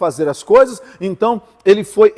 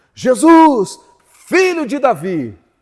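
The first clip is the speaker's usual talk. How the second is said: play-acted loud cry, higher pitch; 6 semitones higher than usual. Retelling how Bartimaeus cried out to Jesus: imitating Bartimaeus shouting. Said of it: "Ele começou a gritar, a clamar".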